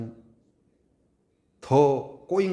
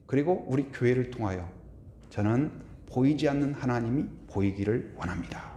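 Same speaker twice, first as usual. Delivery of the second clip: ordinary talk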